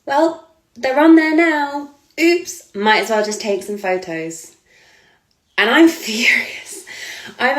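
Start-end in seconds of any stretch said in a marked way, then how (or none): 0.0-4.6 higher, slow, mock-innocent imitation; mocking the photographer. Mocking the photographer who ruined her shoot, higher and slow. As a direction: ham up his fake innocence. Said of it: "And he's gone".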